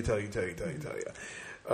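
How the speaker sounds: trailing off, low and soft; a mock droning tell you that dies out; mocking repetition. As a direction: let the nagging words fade away. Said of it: "we're just gonna tell you".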